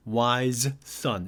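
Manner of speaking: "wise son" said slowly with both s sounds apart; slow careful pronunciation. Shown as a demonstration. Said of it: "아주 천천히 발음할 때는".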